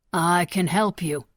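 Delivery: slow, steady reassurance; calm. Acted. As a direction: soothe him, slowly and evenly. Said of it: "he said calmly".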